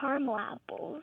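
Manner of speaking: caramel apples as CAR-mul apples; two-syllable caramel. Shown as a demonstration. Caller answering the host's choice, caramel as CAR-mul. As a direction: say caramel with AH, middle vowel dropped. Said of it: "Do you eat".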